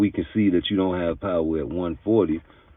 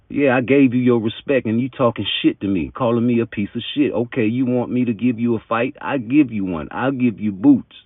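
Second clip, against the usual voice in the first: higher, louder mock comeback; acted indignant retort; 5 semitones higher, 4 dB louder than usual. Promoter answering the father who insulted him, mock indignant. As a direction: fire back quickly, imitating an affronted promoter.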